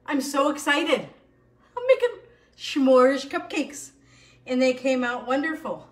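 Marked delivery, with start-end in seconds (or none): 1.8-3.9 laughing. Real, not acted. Laughing while showing cupcakes.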